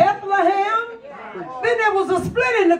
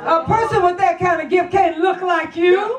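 full-force preaching; 3 semitones higher than usual. Acted. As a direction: drive each "can't" home, gaining speed. Preaching builds over repeated lines.

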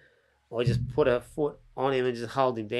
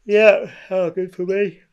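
excited joking; 6 semitones higher, 10 dB louder, slower than usual. Real, not acted. Jokingly claims benefit.

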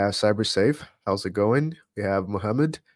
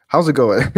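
"how's it going" louder, with playful intonation; deliberate intonation; 3 semitones higher, 8 dB louder than usual. Shown as a demonstration. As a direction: punch out "how's it going" loudly, then break into laughter. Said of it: "need to remember the, uh, intonation".

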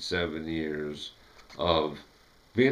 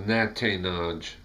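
Natanaj slowly, as Jonathan backwards; reversed; slower than usual. Shown as a demonstration.

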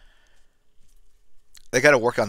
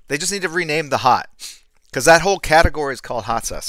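worked-up yell, loud and high; 8 semitones higher, 13 dB louder, faster than usual. Real, not acted. Streamer emotionally invested in hot sauce names, yelling. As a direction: raise your voice in high, loud exasperation. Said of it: "Sorry, I'm yelling".

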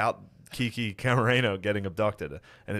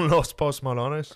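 laughing slow joke; 5 semitones higher, 5 dB louder, slower than usual. Acted.

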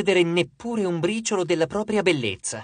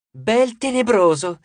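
higher, louder, drawn-out swooning squeal; stretched, raised fangirl squeal; convincing little squeal; 5 semitones higher, 5 dB louder, slower than usual. A narrator's reading. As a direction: echo it as an admiring little cry. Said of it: "con un gridolino convincente".

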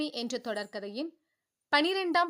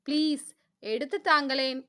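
put-on louder wheedling please, like a coaxing girl; pleading; 5 dB louder than usual. Wife coaxing husband to hand her the towel, pleading. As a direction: beg him sweetly for the towel, a bit louder. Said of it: "கண்கள் சுருக்கி கெஞ்சினாள்".

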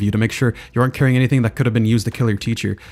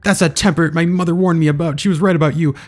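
higher, wounded, dramatic wife voice; hammed-up upset wife; 4 semitones higher than usual. Cindy accusing her pretend husband, lightly voiced higher and dramatic. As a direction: play the betrayed wife in a kid's pretend game.

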